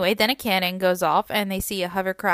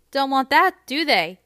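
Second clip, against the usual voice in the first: louder, higher, mocking sarcasm; sarcastic; 6 semitones higher, 6 dB louder than usual. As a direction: needle them with fake concern. Johanna mocking the Capitol.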